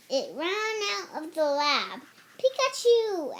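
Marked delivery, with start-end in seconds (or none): 2.4-3.3 high, loud call of a name; yelled. A narrator's reading. Ash shouting after his fleeing Pikachu, loud call. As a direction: call after the runaway Pokemon. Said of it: "Ash yelled".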